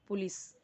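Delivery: पुलिस with a short u in the first syllable; correct pronunciation. Shown as a demonstration. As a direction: say पुलिस as "pu-lis". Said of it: "वो पुलिस नहीं होता".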